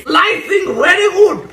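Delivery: silly voice. Acted. Silly voice while slicing.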